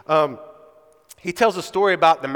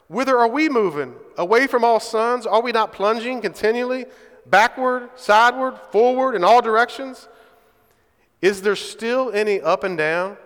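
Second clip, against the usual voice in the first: madman crying out; 3 semitones higher than usual. Acted. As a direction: cry it out like a madman in the market. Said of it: "he cried".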